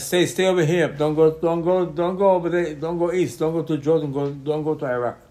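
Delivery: pleading with clouds. Retold or imitated. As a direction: coax the clouds to stay put.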